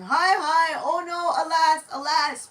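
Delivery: shocked priest wailing, high and loud; alarmed crying out. Acted. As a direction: cry out in panic as the offering is eaten. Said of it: "why are you yelling?".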